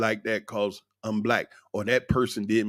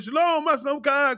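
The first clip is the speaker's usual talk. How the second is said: imitating their greeting. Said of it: "They said".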